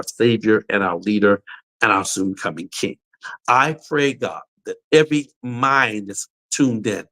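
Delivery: earnest spoken prayer. Real, not acted. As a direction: pray it aloud, fervent and steady. Closing prayer.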